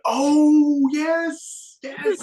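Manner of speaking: hammed-up moment of realization; dawning recognition. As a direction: burst out as it finally clicks. Sudden recognition of the songs.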